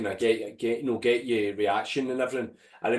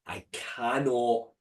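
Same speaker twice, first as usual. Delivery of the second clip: inner thoughts. Retold or imitated. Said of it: "I remember thinking".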